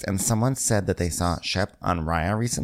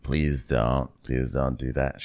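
meek pleading; 5 semitones lower, slower than usual. Retold or imitated. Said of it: "He's like".

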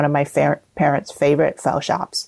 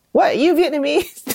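higher-pitched, astonished question; surprised listener; 10 semitones higher than usual. Acted. Teacher playing an impressed Vietnamese server, surprised. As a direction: ask it in mock amazement. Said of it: "they'd be like".

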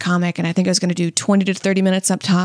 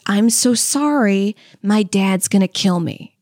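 mild mock crying; slower than usual. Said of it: "breaks down crying and says".

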